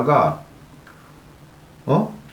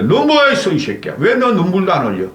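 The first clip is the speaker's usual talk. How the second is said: mock angry scolding; 3 semitones higher than usual. Voicing angry scolding of Yoon.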